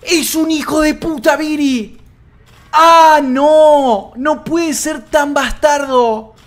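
high, drawn-out cries of outrage and awe; scandalized outcry. Real, not acted. Streamer cursing a player's dirty trick, scandalized outcry. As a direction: wail it in disbelief at the cheek of it.

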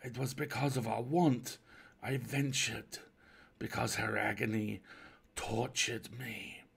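pained stranger, slowing to a drag; wounded, halting explanation; mild reproach. Acted. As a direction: reproach them gently, stretching the last words. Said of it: "in a tone which seemed a merited reproach".

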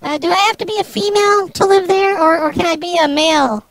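voice-changed woman's voice; fake female voice. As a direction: play a woman over the phone. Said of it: "I can stop with this whole charade thing".

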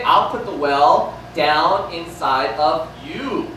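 slow and tender; Jesus' promise. Retold or imitated. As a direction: promise it gently and slowly. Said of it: "what does Jesus say?".

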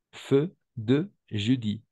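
"Feu de jeudi" slowed down, each EU vowel held; eu sound demo. Shown as a demonstration. Teacher slowly modelling EU in "Feu de jeudi". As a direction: draw out the rounded EU slowly. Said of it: "E, U".

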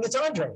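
"Andre" in two syllables, AHN-dray; wrong pronunciation. Retold or imitated. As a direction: say "Andre" as AHN-dray, dropping the middle "dra". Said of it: "she's like, no, it's not Andre".

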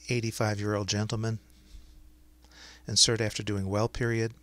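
dictating. Shown as a demonstration. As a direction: dictate clearly to speech software. Dictates a medical note to software.

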